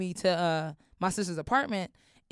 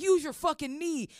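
much higher mock cop sneer; mock cop bark; 10 semitones higher, 3 dB louder than usual. Cop ordering handcuffed woman, mock sneer. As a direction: snap it like a rude cop.

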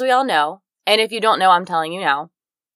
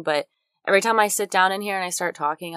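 usual speaking voice

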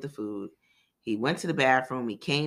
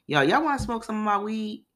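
voicing Paperboy; 8 semitones higher than usual. Paperboy offering weed, voiced.

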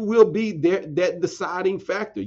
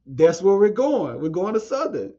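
laughing reply. Retold or imitated. Telling the girls he's going too, laughing. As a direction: say it with a laugh breaking in.

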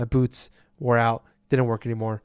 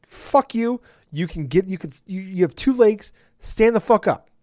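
higher, snapping at a game character; mock angry; 5 semitones higher than usual. Gamer telling the game character to stand up, mock angry. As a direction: scold her in mock fury. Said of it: "And I'm like".

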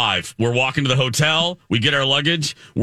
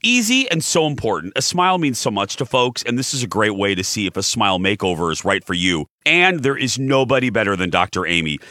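ad read. Real, not acted. Reads a dental ad.

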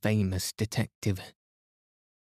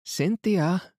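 high, carrying call across the lawn; 10 semitones higher than usual. Acted. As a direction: call her from a distance. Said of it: "called Missus Inglethorpe".

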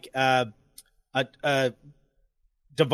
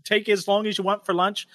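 higher-pitched mild mock yell; yelling boss; 5 semitones higher than usual. Boss scolding late worker, mild mock yelling. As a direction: imitate a boss telling someone off. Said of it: "yelling at me".

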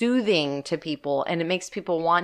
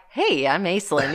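super calm. Retold or imitated. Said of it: "super calm about it".

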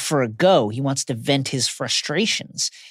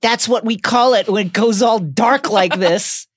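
taunting; 5 semitones higher, 3 dB louder than usual. Retold or imitated. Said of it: "taunts him".

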